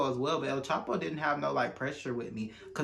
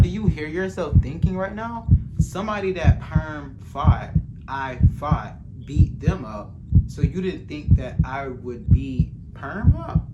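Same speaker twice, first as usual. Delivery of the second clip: loud retort; 8 dB louder than usual. Retold or imitated. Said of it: "I'm like".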